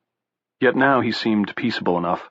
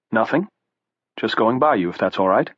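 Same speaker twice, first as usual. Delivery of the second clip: mildly. Acted. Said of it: "Tom said mildly".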